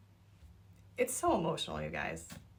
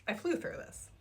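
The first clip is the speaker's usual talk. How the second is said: breathy whisper, a little higher; whispered repeat; 4 semitones higher, 6 dB quieter than usual. Real, not acted. Reviewer echoing her own words, whispered. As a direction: whisper it to yourself in awe.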